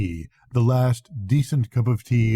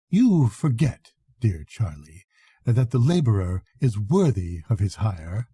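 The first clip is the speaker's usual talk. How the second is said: brightly. Acted. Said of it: "she said brightly".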